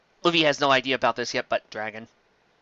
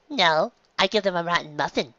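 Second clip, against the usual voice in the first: bird voice; 4 semitones higher than usual. Acted. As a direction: crow it out like a smug mail bird.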